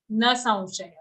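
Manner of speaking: "na saunshayah" as a separate unit; demonstrated pronunciation. Shown as a demonstration. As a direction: say "na saunshayah" apart, after a short break. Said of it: "Then say".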